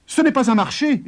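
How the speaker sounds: high, loud refusal; a lightly voiced farmer refusing. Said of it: "dit-il".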